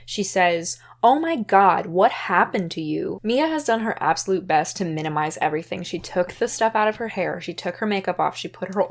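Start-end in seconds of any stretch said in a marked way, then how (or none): 1.0-3.2 louder, shocked exclamation. Retold or imitated. Lily shocked at makeover.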